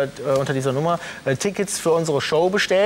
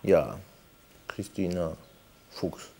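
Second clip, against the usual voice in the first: low, quiet disguised voice; disguised deep voice; 11 semitones lower, 9 dB quieter, slower than usual. Acted. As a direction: mumble it low to hide your voice. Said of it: "meine Stimme verstellt".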